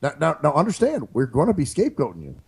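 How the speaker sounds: lightly voiced mock president on a call; calm, halting politician's phone manner, barely shifted; Obama prank call. Pretend Obama calling a terrorist on the phone, lightly voiced. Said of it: "it's Barack Obama from America".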